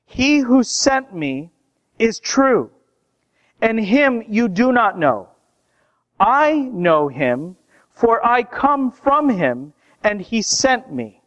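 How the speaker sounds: preacher voicing Jesus' proclamation; proclaiming. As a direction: declare it deliberately, phrase by phrase with pauses. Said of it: "So Jesus proclaimed".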